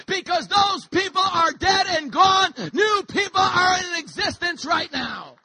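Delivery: rising, slow, shouted defiance; defiant shout. Acted. Adopted children shouting down the debt collectors, defiant. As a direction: stand tall and shout them down.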